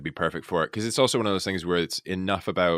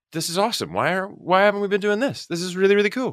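excited gush; 13 semitones higher, faster than usual. Retold or imitated. Actor telling friends about a show she loved, excited. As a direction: rave about it like a thrilled fan. Retelling own excited reaction.

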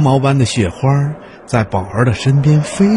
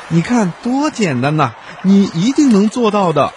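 higher, eager cub voice; encouraging cub; 4 semitones higher than usual. Acted. Little bear coaxes the reindeer to swim, eager cub voice. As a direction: cheer a friend into the water.

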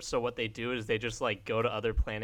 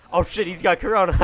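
loud shocked shout, higher; 7 semitones higher, 12 dB louder, faster than usual. Real, not acted. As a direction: blurt it out in alarm. Mock alarm at the video.

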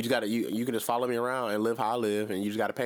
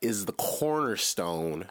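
cult leader voice. Acted. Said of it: "Didn't I sound like a cult leader just then?".

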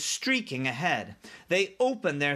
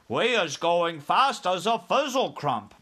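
raised, louder character voice for the giant; BFG giant; 4 semitones higher, 4 dB louder than usual. Acted. BFG to Sophie before running off, lively announcement. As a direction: play a giant announcing his speed.

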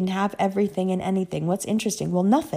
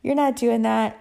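higher, firm retold refusal; lightly acted badass woman putting her foot down; 4 semitones higher, 3 dB louder than usual. Witch to the man she loves, defiant refusal. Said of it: "voodoo witch ... is like".

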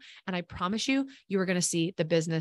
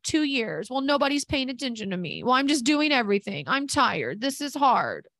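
whiny; 3 semitones higher than usual. Retold or imitated. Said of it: "if they sounded like that".

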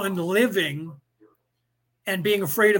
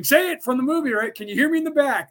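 higher playful quote of the movie line; playful urging; 7 semitones higher than usual. Retold or imitated. Cassie urging him to quote the movie, playfully higher. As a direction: cheer her on to say it, higher. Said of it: "she was saying".

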